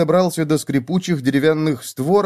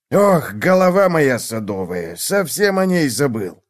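self-reproach; 2 semitones higher, slower than usual. A narrator's reading. Old gnome scolds himself for forgetting.

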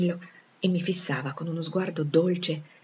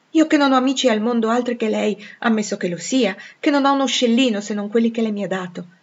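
higher, louder incredulous protest; incredulous Jane; 5 semitones higher, 5 dB louder than usual. Acted. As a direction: protest that it can't be you. (protesta incredula, a voce più alta)

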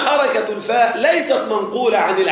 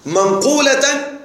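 slow, stretched word; 3 semitones higher, much slower than usual. Shown as a demonstration. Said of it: "حركة منقولة".

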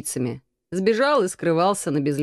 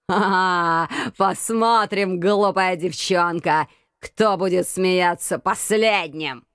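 rasping; slower than usual. Acted. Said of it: "прохрипел Заутберг".

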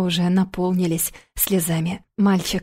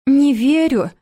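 put-on high, loud tearful child's cry; high loud tearful protest; 6 semitones higher, 5 dB louder, slower than usual. A narrator's reading. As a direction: shout it out as a hurt little girl. Little girl protests in tears.

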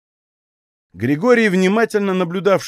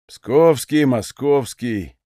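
a sneering little rhyme; mock him for where he's from; slower than usual. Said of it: "насмешливо сказал Фомин".

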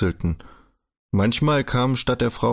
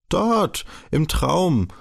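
put-on higher, eager child's question; young Kaspar urging; 7 semitones higher, much slower than usual. A narrator's reading. Kaspar asking Daumer whether he is his father, higher and eager. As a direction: push him for an answer like a child.

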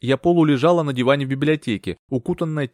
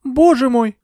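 high, louder horrified gasp; 13 semitones higher, 7 dB louder, slower than usual. A narrator's reading. Euphemia hears of the brutal attack, horrified. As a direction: recoil at the news. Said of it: "ужаснулась я".

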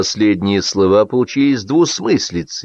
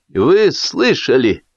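raised, drawn-out gloating question; slow, higher triumph; exultant; 6 semitones higher, much slower than usual. A narrator's reading. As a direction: crow to the whole table. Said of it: "возликовал Лисипедов".

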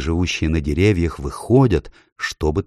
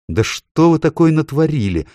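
high, louder puzzled plea; baffled question; 10 semitones higher, 5 dB louder than usual. A narrator's reading. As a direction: demand to understand. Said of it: "никак не могла уяснить Люси".

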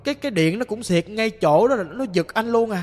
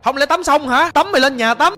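louder mock yell of dismay; retold alarmed scolding; 4 semitones higher, 4 dB louder than usual. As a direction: cry out in exasperation, as a reteller. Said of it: "Anh nghe nó la làng như vậy".

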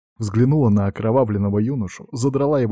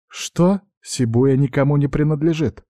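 cold indignation, first word flung high; coldly indignant; 5 semitones higher than usual. Acted. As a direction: bristle coldly at the rival clan. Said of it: "холодно возмутилась Норика". (холодное возмущение, «Что?» резко вверх)

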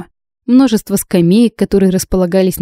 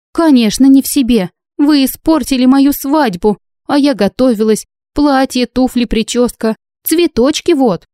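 high, raised theatrical complaint; indignant bride; 6 semitones higher, 4 dB louder than usual. A narrator's reading. Bride complains to judges about her spoiled wedding, indignant. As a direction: pitch it up and lament like a wronged bride.

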